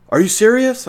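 pretending to be stunned by a scam call; mock shock. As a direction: ham up the fake outrage. Playing along with a scammer.

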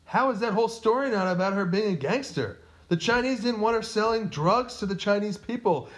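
high, loud, incredulous rebuttal; animated protest. Real, not acted. Host defending the gangster story to co-host, animated protest.

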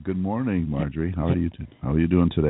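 hoarse, croaky greeting; frog voice. Real, not acted. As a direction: croak it out, worn voice. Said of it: "a little froggish today with our voices".

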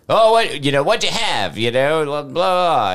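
rough attempt at a New York accent. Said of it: "I can't do a fucking New York accent".

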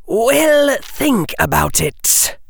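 high, slow hissing Parseltongue; slow hypnotic serpent hiss. A narrator's reading. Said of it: "hissed Harry".

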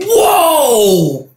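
high whoop half laughing, half crying; overjoyed whoa. Retold or imitated. Cuban hears he won first, laughing and crying. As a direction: let the joy burst out. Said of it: "I was like".

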